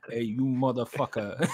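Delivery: slow mock mobster, laughing; Tony Soprano. Joking about Mario's fake voice, mock mobster. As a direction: drawl it as a joke gangster. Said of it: "Like Tony Soprano voice thing".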